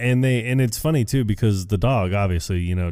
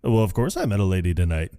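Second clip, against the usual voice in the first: quoting Ron; faster than usual. Retold or imitated. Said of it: "Sir Ron Burgundy, is just".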